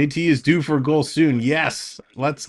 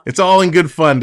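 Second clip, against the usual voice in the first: louder, stressing all; emphatic; 3 semitones higher, 6 dB louder than usual. Real, not acted. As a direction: lean on all to reassure. Repeated line to viewer.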